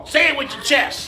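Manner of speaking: belted-out catchphrase; quoted comedian's shout. Retold or imitated. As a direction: push it out from the chest like a comic. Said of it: "I learned that from, uh, Kevin Hart".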